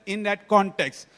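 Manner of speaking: "context" drawn out and set apart at the end; slow down and lean on "context"; stress on context. Real, not acted. Speaker drilling the audience on identity, stressing "context". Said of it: "I'm stressing the word context".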